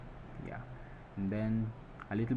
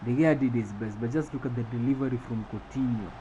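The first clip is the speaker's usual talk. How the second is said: raised, punchy match commentary; play-by-play recap; 3 semitones higher, 4 dB louder than usual. Acted. Commentator reviews the header that put us down, lively play-by-play. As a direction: recap the goal for the viewers.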